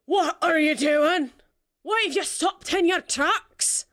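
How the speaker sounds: high, slow, calling down from above; stern deck voice. Acted. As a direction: demand it from the deck.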